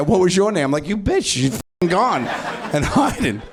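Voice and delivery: high, hammed-up snide voice; mock bitchy greeting. Comic mocking a rude forgetful stranger, snide high voice. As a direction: sneer it like a catty stranger.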